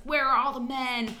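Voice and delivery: first take of the line, rising in alarm; character's cry. Retold or imitated. The guest quotes her character going crazy, frantic. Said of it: "she's like".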